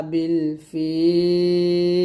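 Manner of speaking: বিল ফিল drawn out slowly, lam held still; slow recitation. Shown as a demonstration. Teacher reciting the verse end slowly for students. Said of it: "লামটা আমরা সাকিন করব".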